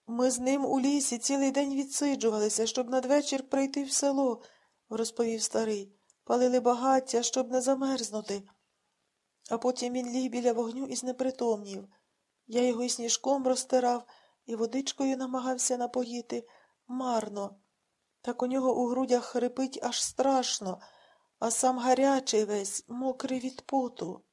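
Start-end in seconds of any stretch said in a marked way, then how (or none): 0.1-4.4 put-on higher, louder old man's voice; worried old man telling the story; an upset old man, raised and loud; distraught old man. A narrator's reading. 6.2-24.2 put-on worried old man telling the story; an upset old man, raised and loud; distraught old man. A narrator's reading.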